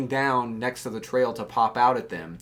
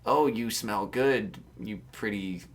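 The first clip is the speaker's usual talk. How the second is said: low, slow, softer creepy hobo voice; 7 semitones lower, 8 dB quieter, slower than usual. Shown as a demonstration. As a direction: drawl it out like a leering hobo. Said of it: "Say something like".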